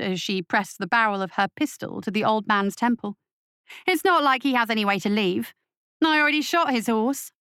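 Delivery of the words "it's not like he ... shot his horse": higher mocking witch voice; taunting witch. Witch mocking the captain about the hostage, high. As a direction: toy with them, cruel and light.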